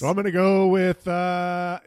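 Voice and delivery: a touch of a dinosaur roar; half-roared growly announcement. Acted. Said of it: "That was the Lost sound".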